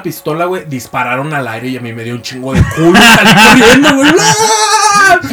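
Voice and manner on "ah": very high hammed-up scream; high fake shriek of terror; mock scream. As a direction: shriek as you bolt from gunfire. Fleeing robbers, retold scream.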